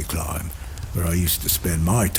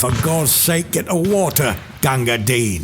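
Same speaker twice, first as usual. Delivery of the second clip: desperate call; 5 semitones higher than usual. Acted. Soldier calling for water for a wounded man, desperate shout. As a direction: beg him to bring water now.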